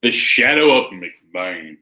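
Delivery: slow country twang on McBain. Shown as a demonstration. Showing how to say McBain, country voice. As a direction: drawl it out in a country accent. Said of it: "you gotta say in a country voice".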